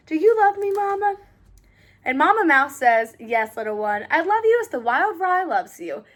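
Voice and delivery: put-on gentle storybook read-aloud for little kids; reading to children. Reads picture book to children.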